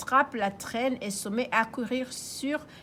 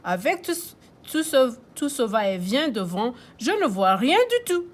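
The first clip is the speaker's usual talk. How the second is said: grandpa complaining; 3 dB louder than usual. Acted. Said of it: "grand-père Léo".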